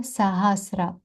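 сагасра kept short, no long vowel; all short syllables. Shown as a demonstration. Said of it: "все коротке".

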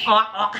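short grunted pig noises; pig oink. Shown as a demonstration. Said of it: "Heo kêu". (giả tiếng heo ụt ịt)

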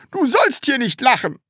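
high-pitched schoolmaster order; stern command. Acted. Teacher forbidding new pupil to laugh, stern and commanding. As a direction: forbid it sharply. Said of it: "befahl Herr Studienrat Groll".

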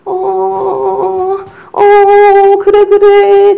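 high, loud mock dad hushing; dad's soothing. A dad imitating himself rocking a baby, high and loud. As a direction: play a dad going uh, yeah yeah. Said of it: "아빠들 중에서는요".

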